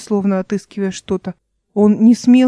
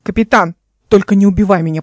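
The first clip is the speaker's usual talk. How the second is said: shouting; faster than usual. Acted. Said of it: "кричал он со скалы".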